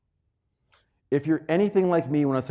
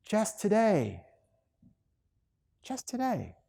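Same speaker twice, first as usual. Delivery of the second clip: soft emphasis; 7 semitones higher, 6 dB quieter, slower than usual. Shown as a demonstration. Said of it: "repeating the key phrase".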